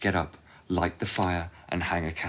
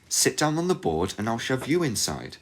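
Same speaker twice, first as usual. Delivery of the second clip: put-on higher girl's voice, calm; young girl voice; 6 semitones higher than usual. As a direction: turn the witch's words back on her. Gretel echoes the witch.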